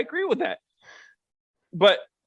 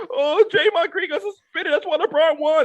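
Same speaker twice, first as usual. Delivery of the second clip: whiny rival fan; 9 semitones higher than usual. Retold or imitated. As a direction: whine it like a sore loser fan. Mimicking whiny Warriors fans.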